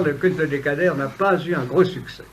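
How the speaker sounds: ordinary talk, nothing marked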